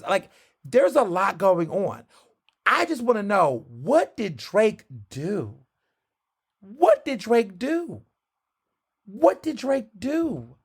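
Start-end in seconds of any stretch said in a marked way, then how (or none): 2.6-10.6 higher, slow drawn-out bafflement; exasperated asking. Real, not acted. Vlogger asking fans, baffled and drawn out. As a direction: plead to know what he did.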